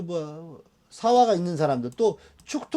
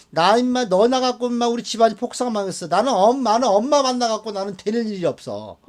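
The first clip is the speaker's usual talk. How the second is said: higher, louder mock scolding; mock family quarrel; 5 semitones higher, 3 dB louder than usual. Parent and child blaming each other for ruined lives, mock angry.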